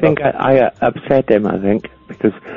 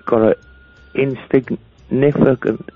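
gumming the words, no dentures; without teeth; 4 semitones higher, slower than usual. Real, not acted. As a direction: toothless mumble. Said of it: "uh, put my teeth in".

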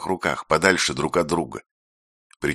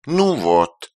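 sugary high chirp; sweet chirping; 8 semitones higher, 4 dB louder than usual. A narrator's reading. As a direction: chirp it sweetly like a little bird. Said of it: "сладко прочирикал Белдо".

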